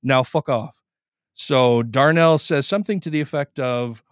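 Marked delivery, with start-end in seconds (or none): 0.0-0.8 higher, exasperated retort breaking into a laugh; mock exasperated tell-off; fed-up brush-off. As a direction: imitate a man who wants to be left alone. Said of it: "And Patrick's like".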